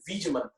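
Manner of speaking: "Bij" with the b and v sounds blended together; exact pronunciation. Shown as a demonstration. Teacher showing students the exact pronunciation, careful demo. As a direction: demo "Bij mantra" carefully, lips between b and v. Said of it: "If you see the exact pronunciation".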